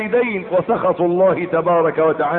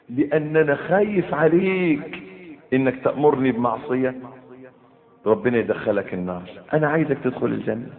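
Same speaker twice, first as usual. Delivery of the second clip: begging son. Retold or imitated. Son pleading humbly with his father, lightly voiced. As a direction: beg gently, then soften. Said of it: "قول له".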